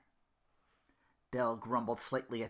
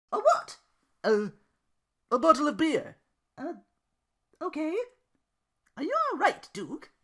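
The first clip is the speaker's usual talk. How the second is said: much higher, louder, fierce resolve; Belle determined; 7 dB louder than usual. Acted. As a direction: build to a defiant vow. Belle and Duke dialogue.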